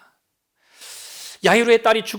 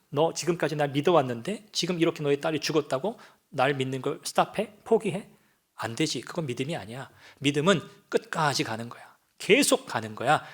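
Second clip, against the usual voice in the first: gentle Jesus voice; 3 semitones lower, 3 dB quieter than usual. Acted. Preacher voices Jesus to Jairus.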